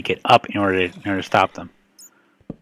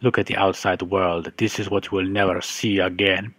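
sinister captor voice. Pretend. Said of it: "It's just like a reminder".

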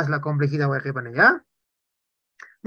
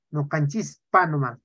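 "No canchispa nomás" spoken slowly, each syllable clear; slow correction; 3 semitones lower than usual. Shown as a demonstration. Teacher corrects a student's writing, slowly and clearly. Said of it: "se dice".

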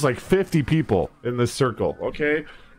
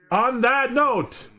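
dramatic voice; 8 semitones higher, much slower than usual. Pretend. Dramatic sign-off voice.

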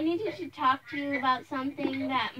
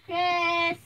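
loud, held-out name call; 5 dB louder than usual. Acted. Mother looking for her son Chris, calling out. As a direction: call for someone in another room.

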